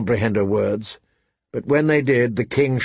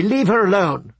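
put-on high, angry young girl's shout; a girl shouting in anger, higher; 8 semitones higher than usual. A narrator's reading. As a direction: yell it out at the king, furious. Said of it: "Arya shouted angrily".

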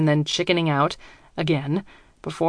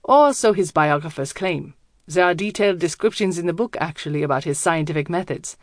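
put-on German accent. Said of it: "His accent is thick, German".

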